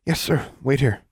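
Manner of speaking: witch voice. Acted. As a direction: answer the boss nervously. Witch answers, voiced by narrator.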